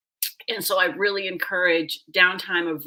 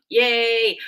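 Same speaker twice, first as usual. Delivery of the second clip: a higher, louder happy cheer; excited cheer; 4 semitones higher, 5 dB louder than usual. Retold or imitated. Mother glad her daughter asked for books, excited cheer. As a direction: cheer it, pleased and drawn out. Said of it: "I was really excited about that".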